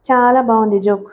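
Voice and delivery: ordinary delivery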